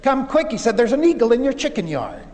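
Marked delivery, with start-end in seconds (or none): 0.0-0.5 higher-pitched, mildly urgent call; excited call. Retold or imitated. Salesman calls the rancher to the chicken yard, excitedly. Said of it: "he called excitedly to the man". 0.8-2.2 higher-pitched, mildly alarmed storyteller quote; acting out an excited discovery; excited report. Salesman alerts rancher to an eagle, with mild excitement. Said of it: "he called excitedly to the man".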